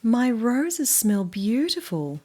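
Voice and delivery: slow, loud and proud; Banjo storybook voice. Acted. Reader as Banjo showing off his roses, slow and loud. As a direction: linger on beautiful. Banjo line read aloud.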